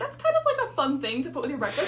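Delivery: high, fast and giggly; bubbly naive delight, breaking into a laugh; mock cheerful. Naive excited quote of self.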